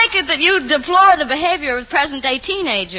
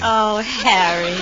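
tender sigh; 2 semitones lower, much slower than usual. Acted. Girl's first-name swoon in courtship skit.

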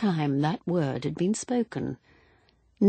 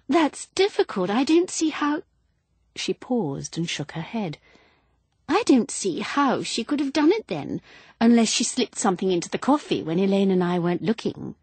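higher, gushing, flustered wife; flustered woman; 5 semitones higher, 4 dB louder than usual. Acted. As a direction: chatter on like a silly widow. Widow voiced again.

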